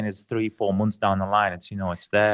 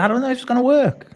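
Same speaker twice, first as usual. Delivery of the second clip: high-pitched, louder self-quote of doubt; retold worry; 13 semitones higher, 5 dB louder, faster than usual. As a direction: re-enact your pre-launch jitters, pitch jumping up. Recalls nerves before the product launch.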